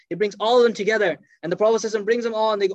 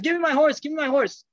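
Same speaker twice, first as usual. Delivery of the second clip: higher, urgent mock yell for the horse; retold scream; 5 semitones higher than usual. Lunatic shut in a house demanding his horse, higher mock scream. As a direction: cry out for the horse, pitch pushed up. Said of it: "He starts screaming from the house".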